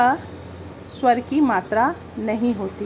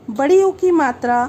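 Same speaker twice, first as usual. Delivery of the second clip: "बड़ी ऊ की मात्रा" repeated louder, "बड़ी" hit hard; emphatic repeat; 3 semitones higher, 6 dB louder than usual. Shown as a demonstration. Teacher repeats the new matra name for pupils, louder and emphatic. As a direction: call out "बड़ी ऊ की मात्रा" again with force for the class. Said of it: "teacher announces matra twice".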